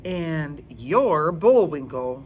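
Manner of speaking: put-on a kid firing back a joke; teasing back. Rocky teases back.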